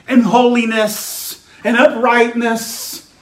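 level, driving pulpit litany; insistent preaching. Acted. Preacher listing sins to be washed away, insistent preaching. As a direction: pile up each item with pauses between.

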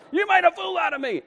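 very high-pitched mock outrage; hammed-up indignation; angry retort. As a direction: wail it as an exasperated complaint. Repeats Balaam's angry retort.

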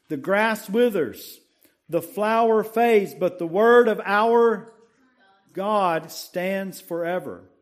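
preached scripture recitation. Acted. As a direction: proclaim the verse to the congregation. Reciting memory verse.

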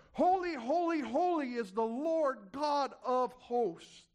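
calling holy high and rising, then slowing down; angels crying out. Retold or imitated. Preacher voicing the seraphim to the congregation, ringing call. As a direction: proclaim it like a seraph over the throne.

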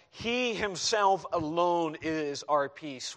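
He himself alone, slowly, each word leaned on; emphatic, slow stress. Shown as a demonstration. Preacher stresses that he alone is our peace, slow and weighty. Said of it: "this is emphatic".

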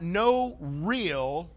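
real leaned on slowly; slow deliberate emphasis on real; stress on real. Shown as a demonstration. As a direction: give real the weight of the phrase. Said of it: "I emphasize the word real".

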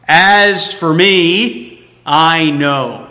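"As for me" drawn out slowly and stressed; emphatic assurance. Acted. Preacher quoting Job's assurance, emphatic on "As for me". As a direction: stretch "As for me", then settle firmly on "I know". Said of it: "The statement of his assurance is emphatic".

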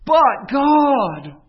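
"But" punched high and loud, then "God" falling; long held "But" before "God"; stress on but. Shown as a demonstration. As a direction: make "But" land like a hammer. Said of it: "Hear the but".

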